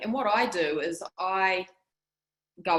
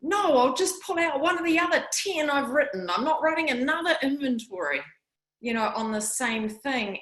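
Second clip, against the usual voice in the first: retold angry protest, pitched higher; replaying past anger, voice raised high; angry retort; 7 semitones higher than usual. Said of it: "I was so angry at the time".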